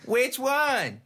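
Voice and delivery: squeaky voice. Acted. Squeaky bar patron.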